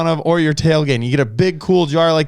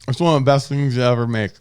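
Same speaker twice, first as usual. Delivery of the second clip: talking through a mouthful of egg; mouth full. Real, not acted. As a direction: speak around a bite of food. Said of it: "talking with your mouth full".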